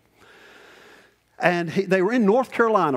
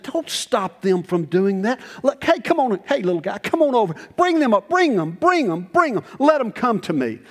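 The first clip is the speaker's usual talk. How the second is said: put-on Jesus calling children; 6 semitones higher than usual. Voicing Jesus calling children over.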